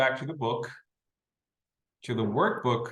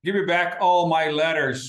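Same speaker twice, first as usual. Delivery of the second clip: a touch of an angry demand, louder; mild anger; 6 semitones higher, 7 dB louder than usual. Retold or imitated. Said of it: "So she said angrily".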